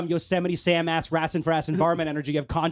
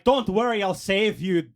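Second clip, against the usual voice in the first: put-on failed Irish accent; slower than usual. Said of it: "I can't do an Irish accent".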